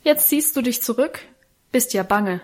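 höher ansetzend, leicht spottend; spöttisch. Acted. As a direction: den Bruder sanft aufziehen. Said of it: "spottete Wilhelm". (Wilhelm verspottet Karl, ein Hauch Spott)

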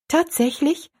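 high, questioning surprise; astonished. A narrator's reading. Girl hearing she was thought of, astonished. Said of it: "Erstaunen klang in ihrer Stimme mit".

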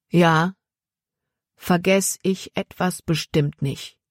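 firm JA, then each word of "vergess ich etwas bestimmt nicht" set apart; every word stressed. A narrator's reading. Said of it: "Jordan betonte jedes Wort". („vergess ich etwas bestimmt nicht“, jedes Wort betont)

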